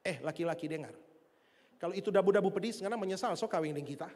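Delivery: fast, low retort to a husband; imitated wife's rapid comeback; mock angry wife. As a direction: fire back quickly as the fed-up wife. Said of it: "Dia respons dengan kemarahan juga".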